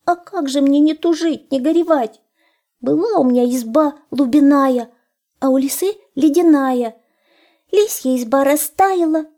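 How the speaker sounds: high, plaintive hare voice; tearful hare. A narrator's reading. Hare telling the wolf his sad story, high and plaintive. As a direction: lament in a high little voice.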